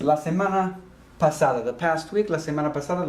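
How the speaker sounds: la semana pasada, each syllable clear; Spanish phrase. Shown as a demonstration. Teacher modelling la semana pasada for the class. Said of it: "last week".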